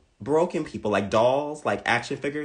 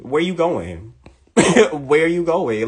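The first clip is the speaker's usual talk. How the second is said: laughing taunt; 4 semitones higher, 7 dB louder, slower than usual. Acted. Taunting a fleeing victim.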